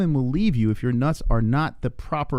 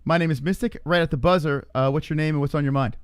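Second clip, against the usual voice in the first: a cheesy late-night psychic taking calls; mystic hotline host; 3 semitones higher than usual. Acted. Hosts a mock psychic hotline.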